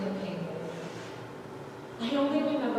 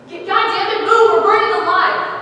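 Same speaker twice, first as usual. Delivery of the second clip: frantic shout, much higher and louder; screamed; 7 semitones higher, 10 dB louder than usual. A narrator's reading. Sailor shoving through the burning tent, panicked scream. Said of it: "He screamed".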